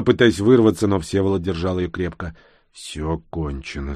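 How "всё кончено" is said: slow, low, softer voice; calm repetition. A narrator's reading. Rescuer restrains the girl, repeating calmly. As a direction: say it slowly and calmly. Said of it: "спокойно повторил он".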